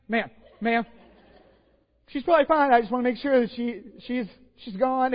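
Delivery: urgent calling. Retold or imitated. Preacher waking a sleeping aunt, loud and urgent. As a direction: call to the sleeping aunt, worried but trying to sound casual.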